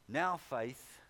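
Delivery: "Now" hit firmly, then "faith" falls away; stress on NOW. Real, not acted. Preacher reading scripture to the congregation, stress on "Now". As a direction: lean hard on "Now" before "faith". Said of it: "I emphasize the word now".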